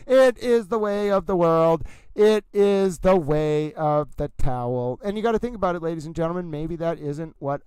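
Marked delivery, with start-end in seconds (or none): 0.1-5.0 slow, grand mock proclamation; mock-solemn sermon. Streamer mock-preaches the towel's way, slowly and grandly. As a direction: proclaim it like ancient wisdom.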